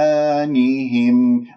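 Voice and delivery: slow طغيانهم with a heavy t and rounded u; emphatic taa. Shown as a demonstration. Teacher models third-level heaviness, slow recitation. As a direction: thicken the opening of طغيانهم, drawing it out. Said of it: "الطاء مفخمة مرتبة ثالثة".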